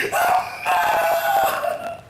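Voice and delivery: loud drawn-out cry of 엄마; the boy spotting his mother and calling out; long slow loud call; child crying out. Retold or imitated. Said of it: "울음마다 하네".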